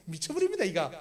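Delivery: incredulous laughing groan; laughing disbelief. Real, not acted.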